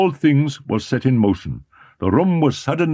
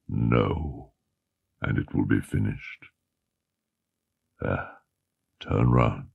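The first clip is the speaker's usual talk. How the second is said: menacing Eric voice; 10 semitones lower than usual. A narrator's reading.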